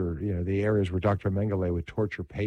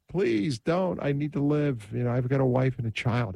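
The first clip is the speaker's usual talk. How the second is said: mild imitated cry, pitched higher; retold plea; 5 semitones higher than usual. Preacher retells a condemned prisoner begging to live, mild plea. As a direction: plead for your life, lightly acted in a retelling. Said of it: "he cried out".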